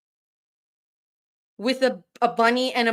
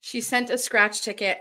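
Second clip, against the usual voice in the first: ordinary delivery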